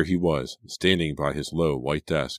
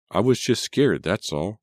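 high, loud, defensive protest; agitated, defensive self-justification; arguing with herself; 6 semitones higher, 4 dB louder than usual. A narrator's reading. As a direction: insist on your own innocence. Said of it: "she argued with herself".

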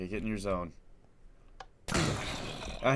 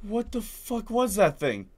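shaken; 2 semitones higher, 7 dB quieter, slower than usual. Real, not acted. Shaken right after the scare.

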